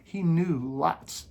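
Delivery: mocking the critics. Parodying the critics who say Joseph knew lots, in a sarcastic put-on voice. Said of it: "that's what the critics and anti say".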